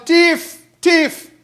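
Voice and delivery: high, loud mock yell of a robber; bawling thief. Man running up the road bawling, mock yell. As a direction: yell it like a man raising the alarm. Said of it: "a man rushed up the road bawling".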